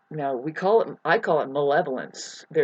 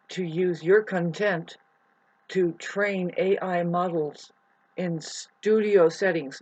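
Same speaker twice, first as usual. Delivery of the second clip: slow emphatic reading; slower than usual. Shown as a demonstration. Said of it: "I'm reading it off of my YouTube".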